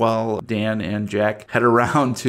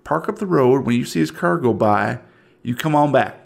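Southern yokel. Acted. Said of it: "I'm from the South".

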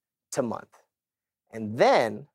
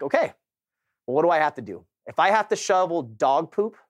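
retold resolve, pitched up with energy; pumped up; 4 semitones higher than usual. Husband retelling his next-morning resolve to provide for family, pumped. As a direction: psych yourself up to do whatever it takes. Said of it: "And I was pumped".

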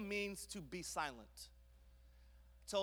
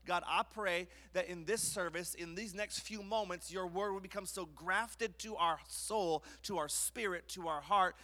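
earnest opening prayer, steady and unhurried; 4 dB louder than usual. Acted. Pastor praying over the church before preaching, earnest. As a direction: pray over the congregation before the sermon, earnest.

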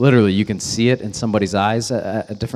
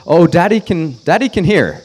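put-on babysitter's oops; 7 semitones higher, 6 dB louder than usual. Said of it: "To which Lily says".

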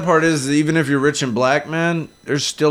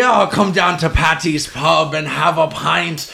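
put-on Irish accent; 3 semitones higher, slower than usual. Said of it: "D from, uh, It's Always Sunny".

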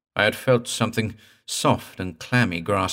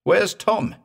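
panicked high call; frightened cry; 12 semitones higher, 4 dB louder than usual. A narrator's reading. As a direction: shout in alarm for a missing friend. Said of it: "I cried".

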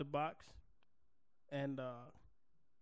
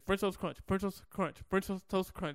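quick tongue-twister run; real fast; 3 semitones higher than usual. Shown as a demonstration. Challenging a friend to a tongue twister, real fast. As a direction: rattle off the cereal name three times. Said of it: "Say it three times real fast".

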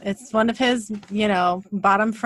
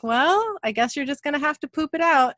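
mock serious teasing; 7 semitones higher than usual. Mom teasing son about tooth.

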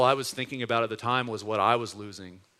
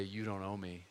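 "You don't owe me" said much softer, almost under the breath; hushed forgiving quote; 3 semitones lower, 10 dB quieter than usual. Retold or imitated. Pastor quietly repeating his friend's forgiveness to the church, hushed. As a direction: let it fall quietly, tender and low in level.

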